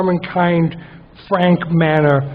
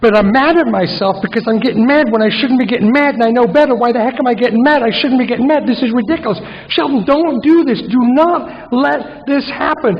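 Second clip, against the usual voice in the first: agitated self-scolding; 5 semitones higher than usual. Retold or imitated. Scolding himself in meeting.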